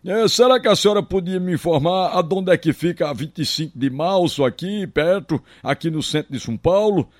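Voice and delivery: put-on politely asking an old lady for directions; a hint of a timid, polite country boy. Country boy asking an old lady in São Paulo for directions, lightly voiced. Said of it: "todo educado".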